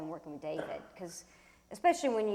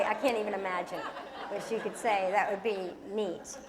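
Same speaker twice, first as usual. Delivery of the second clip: usual speaking voice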